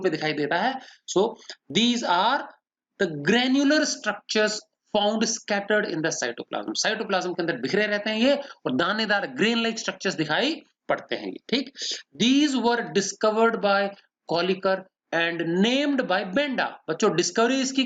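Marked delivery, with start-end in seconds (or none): 1.2-6.5 very slow, word-by-word dictation; dictating notes. Shown as a demonstration. Teacher dictating notes to the class, very slow. 12.2-16.7 very slow, word-by-word dictation; dictating notes. Shown as a demonstration. Teacher dictating notes to the class, very slow.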